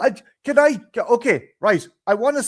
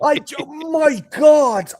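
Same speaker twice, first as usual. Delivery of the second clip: loud, higher, slow exasperated cry; exasperated shout; 11 semitones higher, 8 dB louder, slower than usual. Real, not acted. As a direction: throw up your hands in disbelief. Exasperated outburst.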